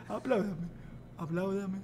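soft, low-key plea for applause; subdued request before an outburst; quiet demand. Acted. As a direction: say it softly, holding back. Begging applause, before shouting it.

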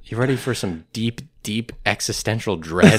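dramatic show announcer. Acted. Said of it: "my announcer voice".

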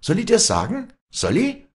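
very high, loud taunt; heated, high-pitched challenge; taunting threat. Acted. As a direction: dare her with shrieking questions. Acted quarrel, threatening to tell.

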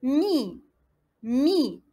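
"Mi" with a long i; syllable demonstration. Shown as a demonstration. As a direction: model "Mi" as one drawn-out syllable. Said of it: "على واش تحصلت؟".

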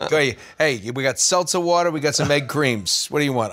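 laughing gruff shopkeeper hawking; old shopkeeper. Acted. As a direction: laugh as a corner-store seller calls out. Egg cream seller voiced.

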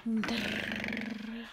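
trilled "drrr" noise; tongue-rolled buildup sound; imitated drumroll. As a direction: roll out a drawn-out mock drumroll. Imitates a noise during reveal.

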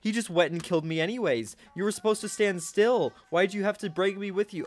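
high-pitched, indignant complaining; exasperated rant. Real, not acted. Gamer ranting about the player who killed them, indignant and high. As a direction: protest the unfairness, pitch up and pushing.

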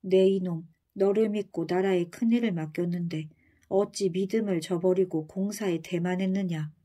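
cutting, stern rebuke; sharp as a blade. Acted. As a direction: slice through him with each word. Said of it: "목소리가 칼날처럼".

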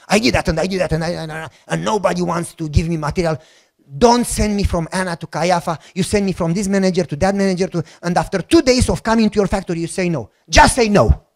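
imitated southern Romanian accent, run-on complaint. Petitioner griping to the factory director, southern Romanian accent. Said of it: "I started to talk in southern accent".

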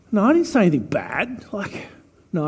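hushed, breathy denial in a retold story; mock whisper that he did nothing wrong; whispered protest. Retelling denial of swearing.

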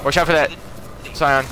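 loud, high warning shout; urgent callout. Real, not acted. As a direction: warn the team fast.

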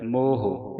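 ਮੋਹ as "mohu", short u after h; ਮੋਹ ending in a light "hu"; model pronunciation. Shown as a demonstration. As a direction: sound the aunkar on ਹ in ਮੋਹ. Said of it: "ਇਸ ਤਰ੍ਹਾਂ ਉਚਾਰਨ ਕਰਨਾ ਹੈ".

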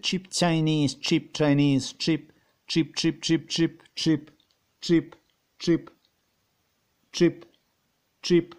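lightly put-on Chinese accent, choppy repeated words; mock Chinese accent. Asking how they say it, then mimicking a Chinese accent. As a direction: imitate a Chinese accent in short separate bursts. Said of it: "How do they say that?".

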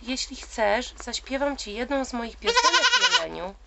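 chirped. Acted. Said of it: "zaćwierkał mały ptaszek".

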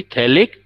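"phthalic" said as thalik, P left out; silent P. Shown as a demonstration. Teacher reminding student, "phthalic" with silent P. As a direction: start "phthalic" straight on the th sound. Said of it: "पी silent रखना है".

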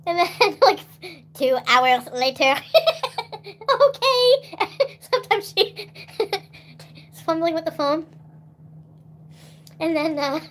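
high, loud laughter through words; laughing. Real, not acted. Telling friends about grandma's calls, laughing hard.

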